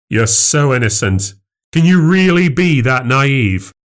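condescending disbelief. Acted. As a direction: belittle her as naive. Husband belittles wife.

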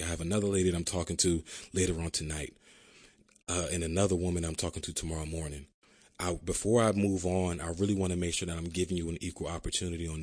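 smooth sales pitch with a hint of radio voice. Agent nudging Miss Seller to agree today, light FM radio voice. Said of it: "I even put my F M radio voice on".

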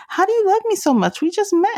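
put-on high, fast, amazed question to the baby. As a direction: gush in disbelief at the baby's love. Quoting herself about adoring son.

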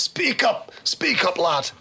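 sharp soldier's order, pitch falling; demanding soldier. Acted. Soldier to a stranger who won't answer, sharp demand. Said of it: "a soldier steps in the way".

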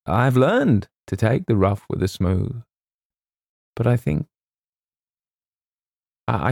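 bow out bravely, faltering between phrases; hammed-up self-sacrifice with long pauses; noble, halting Colonel. A narrator's reading.

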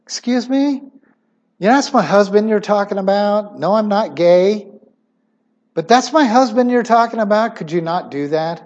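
a hint of a wife bristling at an insult; indignant retort. Believer pretends to answer someone mocking her husband, mildly indignant. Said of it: "you wanna go".

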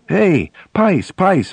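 high, eager call of a name; excited voice. Retold or imitated. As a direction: call out to him, thrilled with news. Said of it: "I said, in an excited voice".

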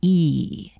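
"E" said alone as a plain vowel; syllable demo. Shown as a demonstration. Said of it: "the last syllable of money".

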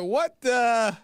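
high-pitched outraged disbelief; shocked disbelief. Retold or imitated. Crowd protesting the angel's verdict, high and shocked. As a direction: pitch it way up, stunned and indignant. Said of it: "everybody's like".

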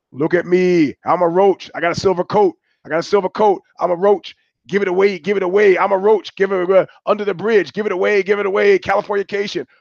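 high, loud taunting sing-song; high mocking chant of his song titles; mock rock singer. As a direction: sneer it like a preening rock star.

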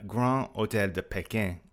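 self-conscious French accent. Real, not acted. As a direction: says the hotel name the French way. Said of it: "I apologize for my horrendous French accent".

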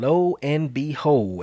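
put-on slow, drawn-out old-timer phrasing; lightly voiced Grandpa, slow; Grandpa's phrase. Quoting Grandpa's saying, slow and drawn out. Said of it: "as Grandpa would say".

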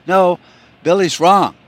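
put-on high, loud child protesting; arguing kid. Kid in the back seat contradicts a sibling, loud protest. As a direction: insist loudly like a squabbling kid.

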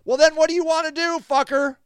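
loud, high-pitched confrontation; angry shouting. Real, not acted. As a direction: throw the question back at a critic in anger. Shouting back at a critic.

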